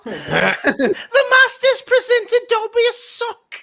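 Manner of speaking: lightly voiced Dobby, drawn out slowly; imitating Dobby. Fan quotes Dobby getting a sock, lightly imitated. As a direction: savour the line slowly, half laughing. Quoting Dobby's film scene.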